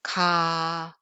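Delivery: drawn-out plain Korean "Ka"; plain lax k. Shown as a demonstration. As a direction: say "Ka" relaxed and held out. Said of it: "let's just read each sound".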